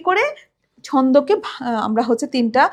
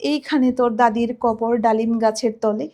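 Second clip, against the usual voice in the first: slow, drawn out; 5 semitones lower than usual. Shown as a demonstration. Teacher showing students a slow drawn-out recitation. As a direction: stretch each vowel, unhurried. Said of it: "আস্তে আস্তে বলছি".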